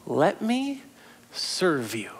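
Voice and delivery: gentle Jesus. Retold or imitated. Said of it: "Jesus is like".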